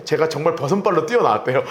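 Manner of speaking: usual speaking voice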